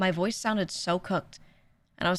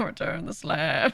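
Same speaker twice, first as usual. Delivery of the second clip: ghostly phantom voice, like in a tomb; 4 semitones lower than usual. Imitating own voice after waking up: Phantom of King Tut voice. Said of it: "sound like the Phantom of King Tut in his tomb".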